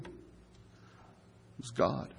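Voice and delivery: slow, hushed whisper of reverence; a slow reverent whisper; awed whisper. Acted. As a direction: breathe it out in awe. Reveal of who sits enthroned.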